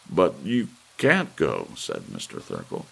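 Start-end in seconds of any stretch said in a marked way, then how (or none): 0.1-1.7 louder, slow insistent objection; anxious man pleading against it; protesting man. A narrator's reading. Thurkell protests.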